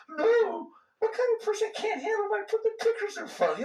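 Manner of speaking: high, laughing squeal of mock disbelief. Teacher mocks a student's objection, laughing in disbelief. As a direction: laugh off the idea that anyone couldn't handle it.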